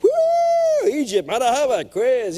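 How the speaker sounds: high whooping party cheer; living it up in the Air Force; woo, off to Egypt; carefree whoop. Retold or imitated.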